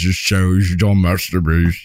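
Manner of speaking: lightly voiced Michael Caine, slow and low; a hint of the butler Alfred calling Master Bruce; Michael Caine impression. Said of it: "Michael Caine says".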